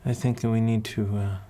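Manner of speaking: a hint of an accented matron; kindly accented mentor. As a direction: counsel a child with long, considered pauses. Voices the accented woman mentor.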